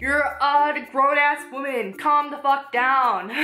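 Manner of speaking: slow, fed-up telling-off; drawn-out mock lecture to a character; exasperated scolding. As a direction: scold her like a grown-up who's had enough. Scolding the book's heroine.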